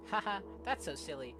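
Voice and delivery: lightly acted, animated self-reassurance; insistent story narrator. Plays story's nervously insistent narrator.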